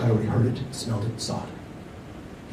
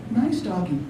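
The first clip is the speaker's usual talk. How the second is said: cooing; 8 semitones higher than usual. A narrator's reading. Little girl cooing to a coyote. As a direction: coax it gently, like to a pet. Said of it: "she cooed".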